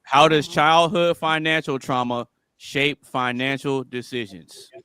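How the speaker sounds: unhurried, spelled-out question; slow deliberate reading. Shown as a demonstration. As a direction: read the question slowly, word by word.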